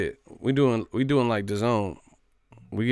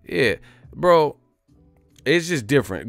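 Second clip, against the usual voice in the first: excited laughing protest; 6 semitones higher, 6 dB louder than usual. Real, not acted. Laughing defence of his claims.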